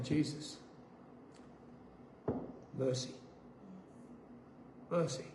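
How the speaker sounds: soft, low re-enacted prayer; weak plea. Patient in pain saying to Jesus, hushed plea. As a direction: plead faintly, with gaps between words.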